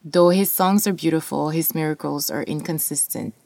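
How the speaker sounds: measured spoken word reading; poetry reading. Acted. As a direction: read the poem with weight. Reads poem aloud.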